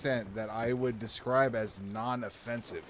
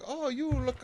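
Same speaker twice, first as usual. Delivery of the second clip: high-pitched Asian lady impression, cut short; tentative high Asian-accent imitation; imitated Asian accent; 11 semitones higher, 4 dB quieter, slower than usual. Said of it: "there was this Asian lady".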